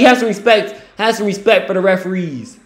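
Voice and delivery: mock scolding. Real, not acted. Scolding player on TV.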